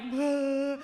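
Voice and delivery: loud high pained cry; Jill's pained scream. Retold or imitated. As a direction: imitate Jill screaming in pain. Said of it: "Jill's like".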